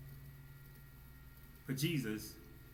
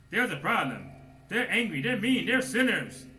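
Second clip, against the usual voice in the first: voice of the flesh; 8 semitones higher, 8 dB louder than usual. Retold or imitated. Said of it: "the flesh telling me".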